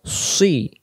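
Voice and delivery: সি heavy, almost "swi"; rounded sad. Shown as a demonstration. Teacher showing sad with kasra, rounded sound. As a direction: round the lips on সি. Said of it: "মুখটা গোল করে".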